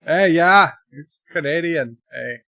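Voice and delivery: loud mock-Canadian "eh"; hammy Canadian, kicking off loud; Canadian accent. Shown as a demonstration. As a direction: lean on the Canadian "eh". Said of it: "the A that makes that work".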